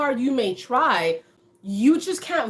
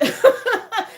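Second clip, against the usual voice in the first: bright high laugh; 10 semitones higher, 4 dB louder than usual. Real, not acted. Laughing at the boss quote.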